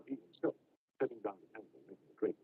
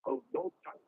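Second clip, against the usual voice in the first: high, loud wail; loud weeping; 4 dB louder, slower than usual. A narrator's reading. Maid breaking the silence among the servants, wailing. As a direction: lift the voice into a distressed cry. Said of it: "lifted up her voice and now wept loudly".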